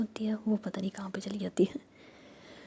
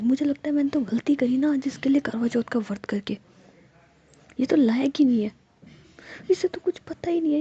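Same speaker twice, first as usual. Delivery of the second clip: angry rant; 5 semitones higher, 5 dB louder than usual. Acted. Ruhi ranting angrily in cab.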